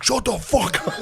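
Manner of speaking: high, laughing "shut up"; mock angry snap. Wood snapping at the teasing friend, high and laughing. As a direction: fake the blowup with a laugh. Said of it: "finally he was just like".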